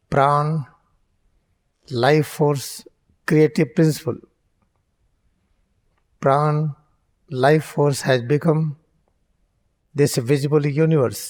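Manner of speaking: unhurried meditation teacher; guided meditation. Real, not acted. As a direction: guide them into focus with long pauses. Leads eyes-closed guided meditation.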